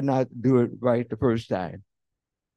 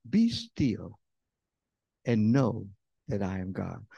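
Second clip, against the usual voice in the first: calm scripture; 4 semitones lower, slower than usual. Acted. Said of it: "here's what the word says".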